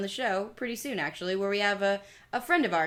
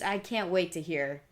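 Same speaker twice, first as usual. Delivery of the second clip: sarcastic; 4 semitones lower, 4 dB quieter than usual. Acted. Sarcastic excitement about Patriots.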